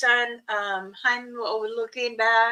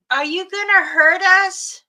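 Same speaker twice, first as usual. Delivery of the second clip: put-on timid child question; 8 semitones higher, 8 dB louder than usual. Scared kids asking the creature.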